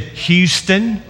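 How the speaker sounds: a light Texan twang on Houston. Retold or imitated. Preacher voicing orphan boy's answer, light Texan twang. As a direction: say Houston like a Texas kid, mildly. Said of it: "in pure Texan twang".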